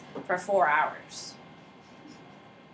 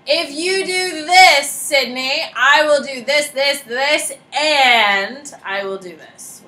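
pleading mock favour; 4 semitones higher, 8 dB louder, slower than usual. Teacher acting out a pleading favour.

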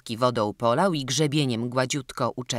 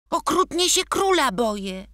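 put-on high, timid childlike apology; a scared little boy stammering out his excuse; frightened child pleading, pitched up; 14 semitones higher, 4 dB louder than usual. Boy admits fear.

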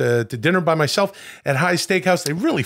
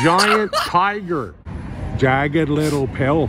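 put-on Canadian accent; much slower than usual. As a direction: shout the sign out slowly in a mock Canadian accent. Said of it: "reading signs in my Canadian accent".

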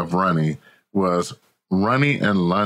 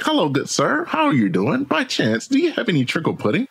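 higher, hammed-up posh gentleman in a pub; mock-posh inquiry, pitched up; 10 semitones higher than usual. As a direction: play a snooty fancy gent asking the barman. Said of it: "add some voices to it".

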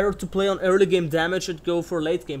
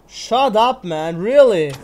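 loud, fed-up shut up; annoyed shout; 2 semitones higher, 8 dB louder, slower than usual. Real, not acted. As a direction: snap at the chat in disbelief. Annoyed at chat.

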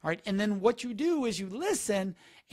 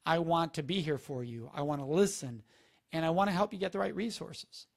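gentle support; 2 semitones lower than usual. Shown as a demonstration. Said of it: "We're doing".

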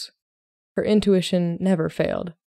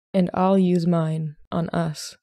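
slow and tender; gently; slower than usual. Acted. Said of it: "Solomon said gently".

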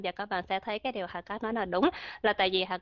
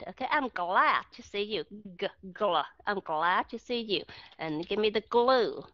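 slow model sentences; slower than usual. Shown as a demonstration. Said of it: "các bạn phải đọc rõ hai âm đó ra".

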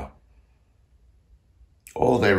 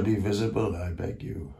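a firm entreaty at usual volume; summoning plea; 5 dB quieter than usual. Acted. Composer bids ghosts appear, summoning plea. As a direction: bid them appear, voice falling at the end.

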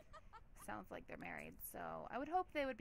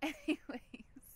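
drawn-out anyways; 5 semitones higher, much slower than usual. Real, not acted. Drawn out after laughing.

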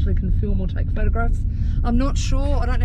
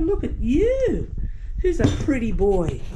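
doting pet talk. Real, not acted. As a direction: fuss over the dog's looks. Admiring the dog.

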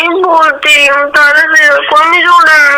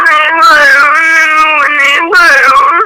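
crying. Real, not acted. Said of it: "હવે રોવાનું બંધ કર દે".

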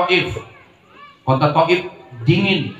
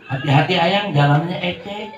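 spoiled cutesy talk. Retold or imitated. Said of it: "ngomongnya kolokan".

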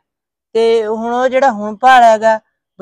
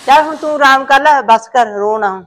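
louder, higher firm command; firm order; 4 semitones higher, 5 dB louder than usual. Acted. Mother firmly ordering the crying daughter to rest, louder. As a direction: tell her firmly to stop.

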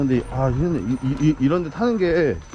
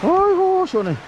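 sinking into hot bath; 3 dB louder than usual. Real, not acted. Relief after the ride.

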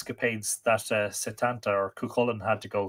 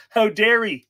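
loud, high indignant punchline; hammed-up indignation for a pun; mock outrage; 11 semitones higher, 10 dB louder than usual. Joker after milk was thrown at him, mock outraged.

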